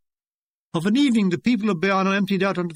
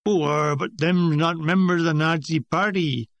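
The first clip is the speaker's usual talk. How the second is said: put-on Cornish accent. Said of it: "with a Cornish accent".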